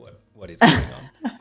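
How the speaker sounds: high and loud, mock-baffled at herself; mock surprise. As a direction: squeak it out in comic disbelief. And I'm like.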